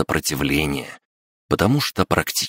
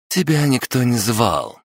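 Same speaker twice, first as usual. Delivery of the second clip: put-on sharp young woman; 8 semitones higher than usual.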